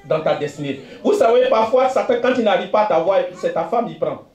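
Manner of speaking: steady, declaiming sermon voice; a pastor declaring blessing over the faithful; fervent preaching. Real, not acted. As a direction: proclaim it to the congregation.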